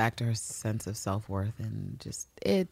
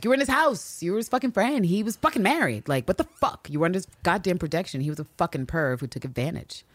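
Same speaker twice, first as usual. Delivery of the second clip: mildly heated, higher-pitched acted rant; imitating an indignant telling-off; retold outrage; 6 semitones higher than usual. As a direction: voice someone else's indignation, punching each accusation. Acting out Lister's outrage.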